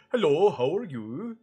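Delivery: bouncy, slow Scandinavian accent; sing-song Scandinavian accent greeting. Shown as a demonstration. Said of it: "the Scandinavian accent is also very cute".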